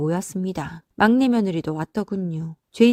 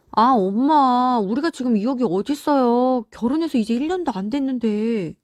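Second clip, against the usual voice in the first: pleading youngest son; 4 semitones higher than usual. Acted. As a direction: plead with mom, dragging the words out. Youngest son protests repayment. (엄마에게 볼멘소리로 하소연하는 막내아들)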